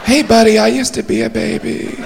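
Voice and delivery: high, softening little voice; high-pitched mock protest; objecting onlooker voice. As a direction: pipe up in a high, hushed put-on voice. Acted objection from a heckling voice.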